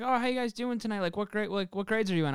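imitating the driver. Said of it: "the driver was like".

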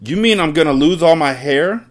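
high, alarmed question; yelling. A narrator's reading. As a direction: yell it as the horrified husband. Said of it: "the husband yelled".

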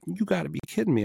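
high, disbelieving imitation of the neighbor; high squeaky imitated astonishment; mock shock. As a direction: play him floored by the price.

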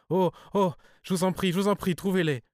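high, loud pleading; anguished cry. A narrator's reading. Cousin begs him to find the money, high anguished cry. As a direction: cry out in suffering, begging desperately. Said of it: "Elle poussa une sorte de cri de souffrance".

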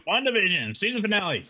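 high-pitched echo of the intro; title announcement. Real, not acted. Co-host echoing the show's title, announcing it high.

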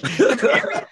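high, loud, incredulous yell; disbelieving shout. Retold or imitated. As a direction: shout it in disbelief at a crazy bet. Listeners react in disbelief.

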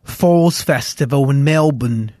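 badly faked Australian accent; horrible Australian accent. Naming the Melbourne festival they played, in a hammy Australian accent. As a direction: put on a bad mock Australian accent. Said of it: "horrible Australian accent I just did".

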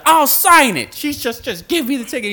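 very high, loud frantic plea; panicked high plea. Retold or imitated. Driver facing the gun begs to sign, panicked. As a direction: beg it fast in a panic.

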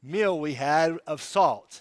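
slow, hammed-up praise to the wife for the salt; mock praise to wife. Husband thanking his wife for corn, mock silly praise. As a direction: gush a little too much over the salt. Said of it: "Do I say, "Honey".

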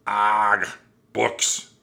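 loud, disgusted pirate growl. A narrator's reading. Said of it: "growled Captain Bones".

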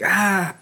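short, high mock baby scream; imitated little scream. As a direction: imitate a kid's small yelp. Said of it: "he, like, kinda screams".

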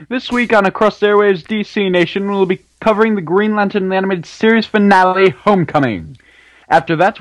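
light announcer voice. Acted. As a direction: read it like a show announcer. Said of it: "in your awesome announcer voice?".

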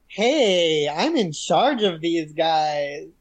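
drawn-out, swooping mock greeting; light take-charge impression. Host imitates Gabrielle taking charge of the Titans, lightly drawn out. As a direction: stretch it out, lightly imitating her recovery. Acts out her recovery after pause.

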